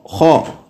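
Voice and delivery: खा with a full, heavy, throaty kha. Shown as a demonstration. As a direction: say खा thick from the upper throat. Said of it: "देखें पुर पढ़ा जा रहा है".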